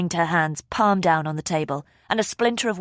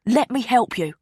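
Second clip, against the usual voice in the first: higher pleading worry; desperate; 6 semitones higher, 3 dB louder than usual. A narrator's reading. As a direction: beg to be of use. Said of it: "sounding desperate".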